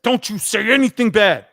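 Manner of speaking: father warning son off Raquel; warning dad. Retold or imitated. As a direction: wag the finger in voice.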